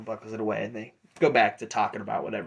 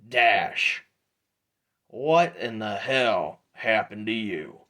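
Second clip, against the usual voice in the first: calling out; 5 dB louder, slower than usual. Acted. Drudge calls out entering the saloon.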